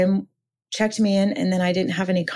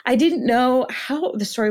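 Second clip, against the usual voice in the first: emotional, near tears; 6 semitones higher than usual. Real, not acted. Guest recalls her late mentor's card, higher and near tears. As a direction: voice lifted higher with real emotion. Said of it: "I still cry about it".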